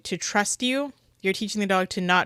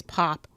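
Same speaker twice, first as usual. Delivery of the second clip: sharp pop; 3 semitones lower than usual. Shown as a demonstration. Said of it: "No, it's not bink, it's pop".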